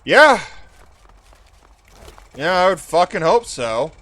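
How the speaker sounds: loud happy shout; excited cheer. Real, not acted. Cheering at game reward.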